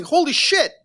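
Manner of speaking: mock cheering, high and loud; a hammed-up board member celebrating; gleeful. Board members cheering as the war begins, gleeful mock shout.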